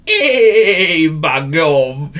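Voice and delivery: high, loud Northern "by gum"; exclaiming goat. Acted. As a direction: burst out in dismay. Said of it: "he sighed".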